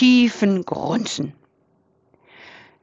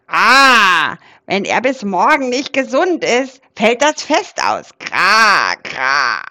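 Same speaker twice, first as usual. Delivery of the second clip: worried raven; 3 dB louder than usual. Acted. Raven worried about Christmas.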